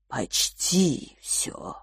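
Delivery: soft, slow whispered correction. Acted. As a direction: breathe the words, barely voiced. Sage corrects the giant quietly.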